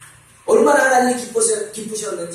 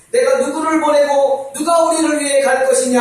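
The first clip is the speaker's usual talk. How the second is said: lamenting call to the prophet, louder and higher; God calling out in lament, raised voice; 6 semitones higher, 6 dB louder than usual. Acted. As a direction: cry out the lament. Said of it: "막 탄식하십니다".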